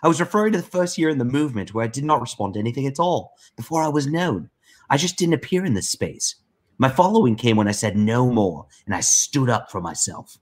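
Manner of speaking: lightly put-on voice reading a message; Liam. Co-host reading Liam's message aloud, lightly mimicked voice. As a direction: lightly imitate the writer, voice a touch lifted. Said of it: "I'll try to read it in, uh, in, in Liam voice".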